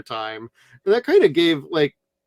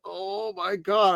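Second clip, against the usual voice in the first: put-on Valley Girl accent; 6 semitones higher, much slower than usual. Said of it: "the Valley accents with her".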